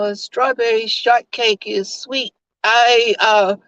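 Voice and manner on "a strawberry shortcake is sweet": dodging with nonsense. Acted.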